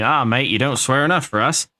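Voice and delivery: poorly imitated Australian accent; bad Australian accent. Imitating Australian subscribers chiding him, bad Australian accent. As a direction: have a rough go at sounding Australian. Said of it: "my accent's shit".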